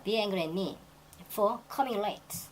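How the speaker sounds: drawn-out, deliberate ending; slow example reading. Shown as a demonstration. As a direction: stretch each word for the students. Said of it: "teacher reads example sentence". (천천히 늘여 읽기)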